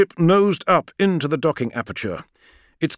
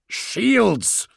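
high, urgent shout; 9 semitones higher than usual. A narrator's reading. Call ordering Friedrich mid-battle, urgent shout. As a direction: yell the order sharply. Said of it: "shouted Call".

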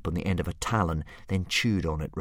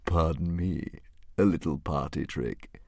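evil dragon; 2 semitones lower than usual. A narrator's reading. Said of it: "giggled the dragon evilly".

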